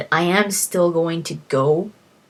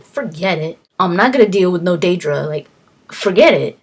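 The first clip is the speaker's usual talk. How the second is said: louder, dismissive refusal; emphatic refusal; 6 dB louder than usual. Retold or imitated. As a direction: wave it all off, firmly. Refusing Daedra deals.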